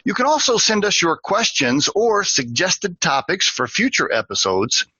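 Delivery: brisk, upbeat sign-off announcer voice; podcast outro read. Acted. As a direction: read the closing plug like a radio host.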